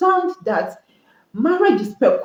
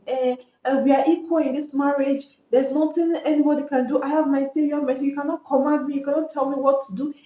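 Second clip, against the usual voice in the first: mocking defiant spouse; 5 semitones higher, faster than usual. Voicing defiant modern spouses.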